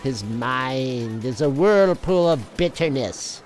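dramatic comic narrator; story narration. A narrator's reading.

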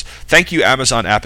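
sarcastic high thank you; mock thanks. Mock thanks to autocorrect app.

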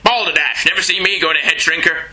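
mock British bluster; a hammed-up English gent scoffing; British accent. Reading Jonah's line in a British accent. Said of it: "I can do a better British accent".

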